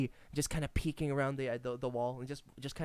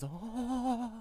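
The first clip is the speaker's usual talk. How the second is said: gasping rat voice; 6 semitones higher than usual. Acted. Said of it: "he gawks at you, goes".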